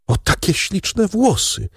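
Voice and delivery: high, mournful exclamation over lost hair; regretful cry. A narrator's reading. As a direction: mourn the cut braids aloud. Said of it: "zawołała z żalem Luiza".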